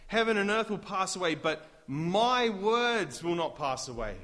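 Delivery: loud, high, then slowing on the last words; fervent pulpit delivery; forceful proclamation. Acted. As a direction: proclaim Christ's words with weight. Quoting Jesus with force.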